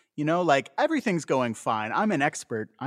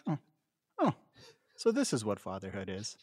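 laughing through a deflated "oh, so this is what fatherhood is"; a wry, laughing letdown at the mess; dismayed realization; 3 semitones lower, 4 dB quieter than usual. Retold or imitated. Dad covered in mess, realizing fatherhood, laughing dismay. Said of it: "you stand there and you think".

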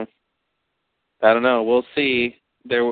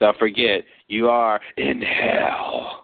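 slow, drawn-out sinister warning; ominous demon voice; 3 semitones lower, much slower than usual. Pretend. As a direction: drag it out like a demon. Spooky joke to listeners.

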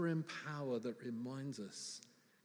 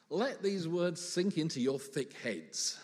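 exasperated Jesus; 3 semitones higher, 4 dB louder than usual. Acted. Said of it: "Jesus said in verse forty-four something like this".

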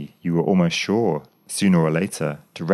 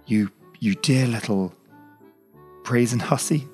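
laughing through tears; 6 semitones higher than usual. A narrator's reading. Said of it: "a happy laugh that choked oddly on tears".

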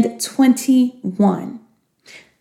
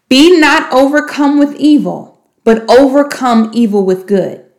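repeat-after-me reading; 3 semitones higher than usual. Shown as a demonstration. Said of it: "give you the opportunity to repeat after me".

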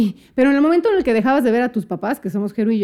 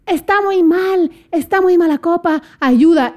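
slow, raised mock alarm call; imitated shout for help; 5 semitones higher, 4 dB louder, slower than usual. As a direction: stretch out a retold cry for help. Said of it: "me alcanzó a gritar Héctor, el pinche gringo". (grito de auxilio imitado, lento)

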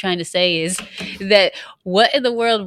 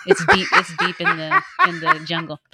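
high-pitched, giggling through the words; laughing; 11 semitones higher than usual. Real, not acted. Wife defends her failed African dialect to husband, laughing. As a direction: barely get it out through laughter.

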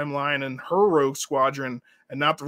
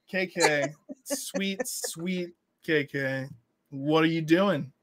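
mock pity; 4 dB quieter, much slower than usual. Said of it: "And I'm just like".

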